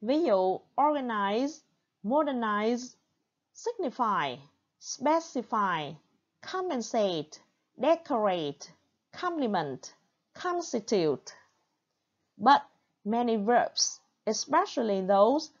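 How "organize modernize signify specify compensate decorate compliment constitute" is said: word list with the opening syllable strongest in each, from organize to constitute; first-syllable stress. Shown as a demonstration. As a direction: stress the first syllable of organize, modernize, signify, specify, compensate, decorate, compliment, constitute. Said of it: "often have stress on the first". (nhấn âm tiết đầu mỗi từ, từ organize đến constitute)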